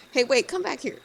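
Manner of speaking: calling the skeleton back. Acted. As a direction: shout for them to come back. Calling after fleeing character.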